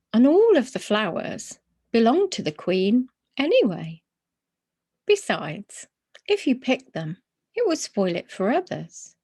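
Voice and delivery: lightly voiced gentle old man explaining; kindly old gentleman. A hint of Mister Gruber explaining the royal park rules. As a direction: patiently set the bear right.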